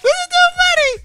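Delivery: words squeezed out through laughter; laughing while talking. Real, not acted. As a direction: talk while cracking up.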